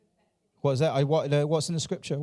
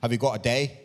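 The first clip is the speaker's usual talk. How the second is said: mock weary churchgoer; 5 semitones lower than usual. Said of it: "You're like".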